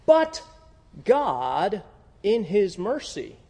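"but" shouted loud and high; preacher voicing God with a soaring "but"; God's proclamation. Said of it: "God says".

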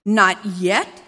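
sneering echo as a question; mocking parrot. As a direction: throw her words back at her. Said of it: "he parroted".

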